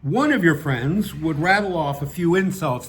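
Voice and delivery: measured, emphatic read-aloud narration; story narration. Acted. Reading a satirical piece to an audience, measured narration. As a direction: read it out with deliberate phrasing.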